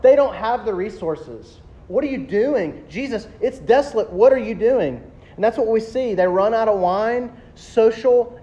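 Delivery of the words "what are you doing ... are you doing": higher-pitched mock-frantic pleading; acted freaking out. Disciples without resources to Jesus, freaking out. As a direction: imitate disciples demanding help, voice raised in pitch. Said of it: "they're freaking out".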